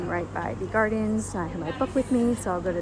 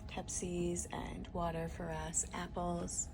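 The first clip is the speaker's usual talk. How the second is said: whispering; 2 semitones lower, 11 dB quieter than usual. Real, not acted. Quiet aside in crew lounge.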